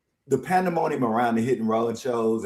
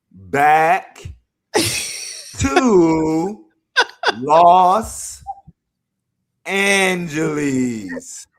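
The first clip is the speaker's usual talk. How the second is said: laughing through tears; 2 semitones higher, 4 dB louder, much slower than usual. Real, not acted. Reading while laughing and tearing up.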